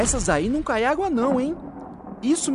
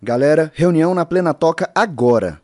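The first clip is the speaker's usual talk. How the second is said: calling out; 5 semitones lower, 6 dB louder than usual. Acted. Hero calls team to meeting.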